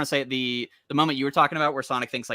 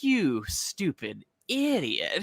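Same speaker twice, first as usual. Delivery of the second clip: drawn out very slowly, pitched up; exasperated insult; 4 semitones higher, 3 dB quieter, much slower than usual. Acted. Eggman scolding Sonic for still hoping, slow exasperated insult. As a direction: stretch each word out in mocking exasperation.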